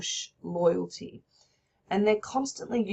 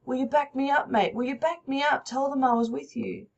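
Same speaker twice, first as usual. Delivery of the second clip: panicky; 5 semitones higher than usual. Acted. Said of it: "He's getting really panicky".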